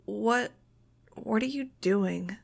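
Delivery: slow, halting, dazed question; groggy. A narrator's reading. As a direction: ask it woozily, just coming round. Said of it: "sounding kind of groggy".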